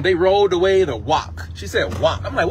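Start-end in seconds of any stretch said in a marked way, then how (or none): 0.0-1.5 "wok" with a W sound where rock is meant; child's mispronunciation. Retold or imitated. Daughter in an Easter play, saying "wok" with W for R. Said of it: "that's the best she can say". 2.0-2.2 "Wok" with W replacing the R of rock; child's mispronunciation. Retold or imitated. Preacher quoting his small daughter, "Wok" said with W for R. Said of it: "She meant rock".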